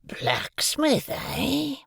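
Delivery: rough, questioning growl; gruff convict. A narrator's reading. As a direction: pick up on the word suspiciously. Convict reacts.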